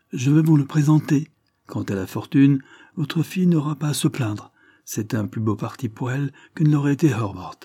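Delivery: put-on an old lord announcing his son with pride; proud old lord. Lord Dane to the squire, proud and booming.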